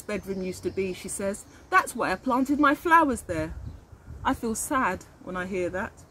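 put-on reading a picture book aloud to children; gentle read-aloud narrator; story narration. A narrator's reading. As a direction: tell it like a storybook for little ones. Reads picture book aloud to class.

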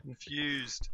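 breathy puzzled whisper. Real, not acted. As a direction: whisper it to yourself, baffled.

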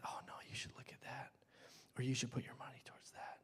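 soft, tempting whisper; devil's whisper. Retold or imitated. The devil tempting you after church, whispered. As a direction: slip the lie quietly into their ear. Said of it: "He, he whispers".

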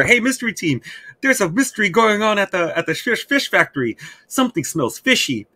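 high, perky mock call to the team; chirpy old lady. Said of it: "riding around a little bike saying".

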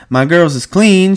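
high, loud, drawn-out madam voice; Susie. Retold or imitated. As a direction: mimic the madam, slow and high. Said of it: "she says".

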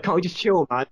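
lightly acted sitcom whine; quoted chilled-out guy. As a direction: imitate someone pleading to be left to relax. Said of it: "And he's like".

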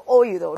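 oído mis-stressed on the o. Shown as a demonstration. Teacher shows oído without its accent, stress on o. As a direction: hit the o, let í glide away. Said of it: "重音就落在了谁上？o上".

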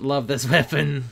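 laughing through the word weapon. Shown as a demonstration. Gamer repeating praise for his weapon, laughing. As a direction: giggle as you repeat it.

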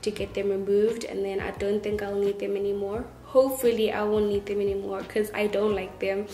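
speaking around new brackets; slight lisp from braces; talking with braces. Real, not acted. Seen 5: Metal brackets glint on teeth when mouth opens; absent in refs.

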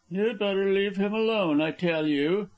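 high-pitched, pressing character voice; insistent warning. A narrator's reading. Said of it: "he repeated".

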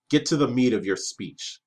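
gruff, impatient king snapping an order; angry demand. Acted. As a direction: shove the envoy along angrily. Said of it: "The angry words frightened Kalen".

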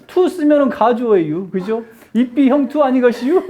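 playful Chungcheong lecture lilt; Chungcheong dialect. Shown as a demonstration. Teacher trying a dialect grammar lesson, Chungcheong accent. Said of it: "충청도 버전으로 문법을 찍으면".

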